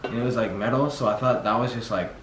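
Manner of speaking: soft, half-numb mouth speech; talking after dentist numbing. Real, not acted. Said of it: "half of your mouth is moving".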